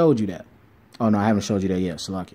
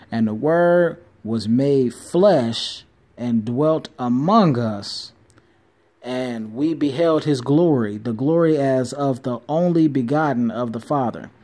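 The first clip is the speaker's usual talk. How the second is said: solemn scripture reading; slower than usual. Acted.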